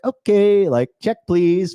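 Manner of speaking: loud exasperated okay, then curt; dismissive brush-off. Retold or imitated. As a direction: wave her off, done with it. Brushing off complaining girl.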